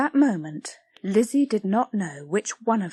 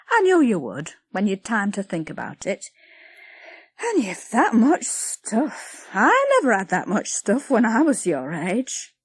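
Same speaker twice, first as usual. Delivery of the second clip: Patty, grudging; 3 dB louder than usual. Acted. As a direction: complain about the girl's things.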